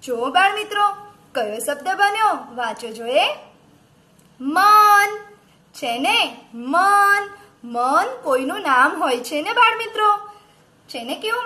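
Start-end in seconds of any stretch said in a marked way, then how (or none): 4.4-5.2 loud, high, drawn-out word; reading out loud. Shown as a demonstration. Teacher models a word for children, loud and drawn out. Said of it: "મોટેથી વાંચજો". 6.5-7.3 loud, high, drawn-out word; reading out loud. Shown as a demonstration. Teacher models a word for children, loud and drawn out. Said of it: "મોટેથી વાંચજો".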